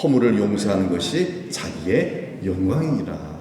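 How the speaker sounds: measured, unhurried recitation; slow scripture reading. Shown as a demonstration. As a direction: read slowly, like scripture read aloud. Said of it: "읽어봅시다". (천천히 성경 봉독하듯)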